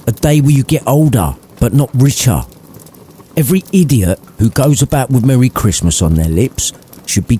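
a lightly voiced cranky old miser, swearing; grumpy Scrooge. Old Scrooge snarling at his cheerful nephew, lightly voiced. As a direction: spit out the rant like a bitter old man.

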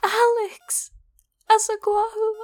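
bright, happy call of his name; excited greeting. Acted. Joyful reunion, calling his name.

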